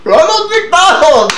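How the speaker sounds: high, loud incredulous laugh; surprised. Real, not acted. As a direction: burst out in disbelief. Disbelieving reaction to the story.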